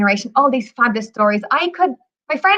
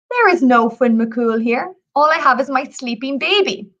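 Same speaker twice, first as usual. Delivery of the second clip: mildly calm, measured reply. Acted. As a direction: answer the roaring giant evenly, unruffled.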